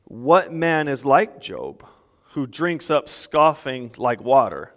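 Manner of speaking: slow, measured Bible reading; scripture reading. Acted. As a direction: read each phrase slowly and deliberately. Reads scripture aloud.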